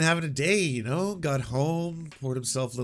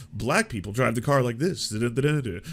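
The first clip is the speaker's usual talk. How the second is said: nineties standup bit. Retold or imitated. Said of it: "those old nineties routines".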